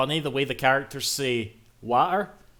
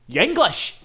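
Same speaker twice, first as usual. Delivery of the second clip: higher, louder jeering insult; mock playground taunt; 9 semitones higher, 6 dB louder than usual. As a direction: sneer it like a pub heckler. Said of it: "they'll just go".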